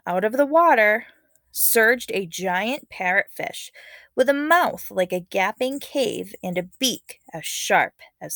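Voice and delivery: lively read-aloud storytelling voice; story narration. Acted. Teacher reading a legend to her class, dramatic storytelling.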